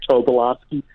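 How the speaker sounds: Tobolowsky with a long O first, "TOH-buh-LAHS-kee"; name variant. Shown as a demonstration. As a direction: round "toh" opening on Tobolowsky. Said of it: "pronounce the name differently".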